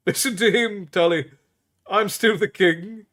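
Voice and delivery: put-on a happy king needling his old teacher; a hint of a cheerful young king; playful young king. A narrator's reading. King Liam teasing.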